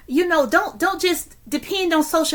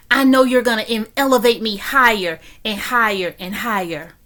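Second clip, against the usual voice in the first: impassioned, preacherly thanks to God; fervent prayer; 2 semitones lower, 3 dB louder than usual. Real, not acted. Speaker thanking God for water and crumbs, fervent prayer. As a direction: pray it out with conviction.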